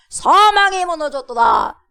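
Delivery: high, loud spoken declaration; proclaiming. Acted. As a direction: shout it as a victory proclamation. Proclaims the lyric to congregation. (크고 높게 외치는 선포)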